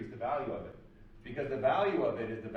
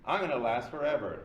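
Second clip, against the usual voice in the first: loud, higher, cocky retold boast; mock boastful Gina; 3 semitones higher, 4 dB louder than usual. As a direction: brag to the whole room like you can't lose. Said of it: "and she goes".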